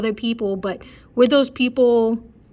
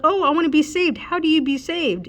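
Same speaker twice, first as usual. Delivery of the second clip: higher-pitched imitation of eagerness; mock eager convert; 6 semitones higher than usual. Passer-by asking a street preacher, mock eagerness. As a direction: put on a higher voice, pretending to want it.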